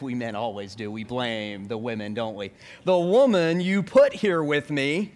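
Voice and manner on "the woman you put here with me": slow, louder, indignant finger-pointing Adam; defensive blaming. Acted. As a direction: push the blame onto her, deliberately. Adam blames Eve, acted.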